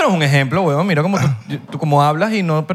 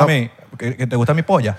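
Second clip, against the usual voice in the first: laughing put-on Spain Spanish accent, a bit lower; mock Spain Spanish; 4 semitones lower than usual. Friend mocks Venezuelans who copy the Spain Spanish accent, laughing lowered Spain Spanish accent. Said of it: "Te imaginas, seguro como usando palabras".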